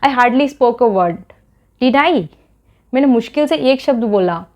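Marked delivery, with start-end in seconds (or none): 0.1-2.2 very slow, each word spelled out for learners; slow model sentence. Shown as a demonstration. Teacher modelling a question tag for students, very slow and deliberate. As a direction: lay the sentence down word by word, then lift the tag. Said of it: "मैंने बोला".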